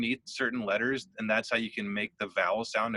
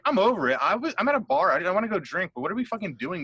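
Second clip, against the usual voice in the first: fed-up rant; 6 semitones higher, faster than usual. Retold or imitated. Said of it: "I was like".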